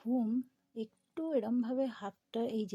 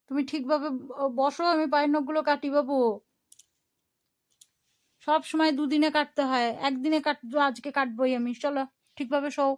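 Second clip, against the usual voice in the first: firm raised coaxing; 5 semitones higher, 9 dB louder than usual. Real, not acted. Firmly coaxing baby to lie down.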